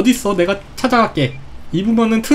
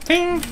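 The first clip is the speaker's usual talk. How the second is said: high short "ttaeng"; ping it out like a chime; imitated ding; 9 semitones higher, 3 dB quieter, much slower than usual. Imitates mask sound.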